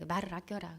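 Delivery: very soft, hushed instruction; whispered advice. Retold or imitated. Wife advising husband to save his words, whispered. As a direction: whisper it as a private warning.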